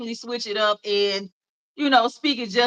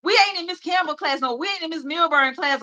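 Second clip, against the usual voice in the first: friends' teasing voice, higher; mocking her friends; 5 semitones higher than usual. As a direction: play the high-school friends teasing her, pitched up. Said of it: "and they would be like".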